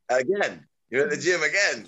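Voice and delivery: mock telling-off in rising pitch; stern disbelief. Businessman friend scolds him for being at the gym, stern. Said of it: "had a stern talking to me".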